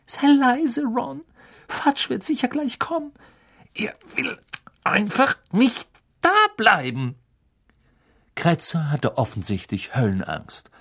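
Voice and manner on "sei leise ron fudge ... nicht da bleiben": urgent whisper. Acted. Hermine hushing Ron, fearing Fudge.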